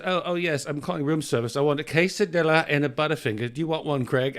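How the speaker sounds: lightly imitated British rock star, dropped r's; a hint of an English rocker ordering room service; impression of a rock singer. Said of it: "he does his impression".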